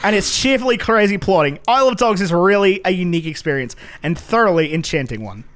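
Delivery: a deliberately terrible Aussie put-on; awful Australian accent. Reading a film review to his co-host in a mock awful Australian accent. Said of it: "truly awful Australian accent".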